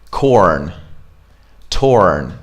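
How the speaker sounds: CORN and TORN with the R fully sounded; American R. Shown as a demonstration. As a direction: curl the tongue back for the R in CORN, TORN. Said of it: "the same thing".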